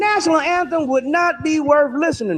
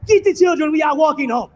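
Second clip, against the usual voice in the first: indignant slave. Acted. Acted slave leaving with family.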